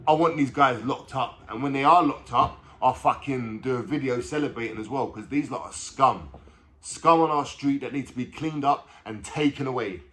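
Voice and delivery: loud, angry insistence; real anger. Real, not acted. Man in video demanding the culprits be locked up, angry. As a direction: let real anger push the volume up. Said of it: "people, I'm so angry".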